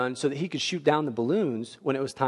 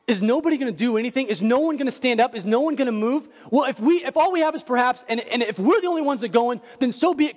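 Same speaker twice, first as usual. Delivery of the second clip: rallying cry; 7 semitones higher than usual. Retold or imitated. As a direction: rouse them: will no one move?. Voicing Jonathan's rallying cry.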